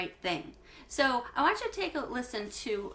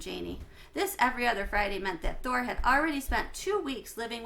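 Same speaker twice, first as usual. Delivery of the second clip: clear, lively read-aloud for a class; story narration; 3 dB louder than usual. A narrator's reading. Teacher reading a chapter book to her class, lively narration.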